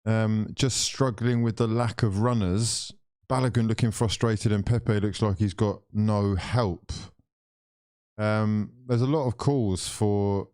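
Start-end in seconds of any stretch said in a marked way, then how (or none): 0.1-6.9 commentary read. Shown as a demonstration. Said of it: "Music commentator says".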